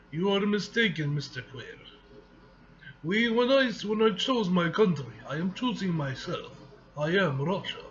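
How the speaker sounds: put-on light Russian accent for the villain; a hint of a Russian accent, proud and cold. Comic reader voicing villain Mikhail, light Russian accent. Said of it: "What do you think of my Russian accent?".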